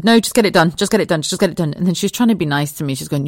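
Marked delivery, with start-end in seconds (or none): 0.0-1.7 retold urgent plea. Retold plea to doctor mid-procedure.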